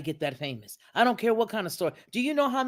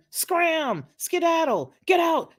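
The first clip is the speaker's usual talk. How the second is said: high, mock-shrill shooing him off; 10 semitones higher, 3 dB louder, slower than usual. Preacher mocks mother shooing the father away, high and sassy.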